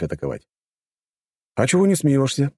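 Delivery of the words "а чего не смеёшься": smirking taunt. A narrator's reading. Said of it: "ухмыльнулся я".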